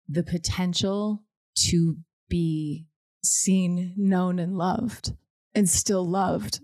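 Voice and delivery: slow, getting choked up on the words. Real, not acted. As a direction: let the emotion catch as you slow down. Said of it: "I'm getting choked up".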